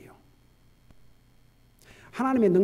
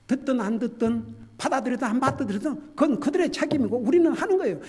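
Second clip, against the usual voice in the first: louder, higher, insistent; preaching at full force; 7 semitones higher, 6 dB louder than usual. Acted. Pastor telling believers to keep preaching Christ, in a loud, insistent voice. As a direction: press the duty home.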